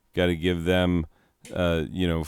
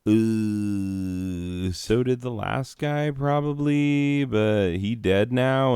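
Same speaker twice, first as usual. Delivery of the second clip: mock sheepish pope; slower than usual. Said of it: "And it's like".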